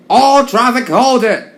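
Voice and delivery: high, loud, slow shouted warning. Acted. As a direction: call it out slowly down the line as an alarm. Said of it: "warned the signalman".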